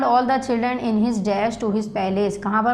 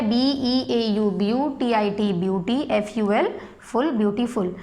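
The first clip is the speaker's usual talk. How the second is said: slow spelling out; slower than usual. Shown as a demonstration. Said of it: "मैं spelling भी इसमें dictate करती जा रही हूँ".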